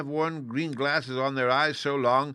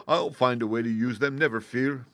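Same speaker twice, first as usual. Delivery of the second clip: Scarecrow asking; 2 semitones higher, 5 dB louder than usual. Acted. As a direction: drag it out like a simple scarecrow. Scarecrow promises.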